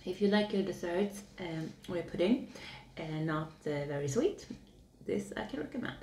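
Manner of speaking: spoon near mouth, small bites; speaking between spoonfuls of jelly; talking while eating. Real, not acted. Seen 1: Holds cup, spoon at lips while talking; bites before and during.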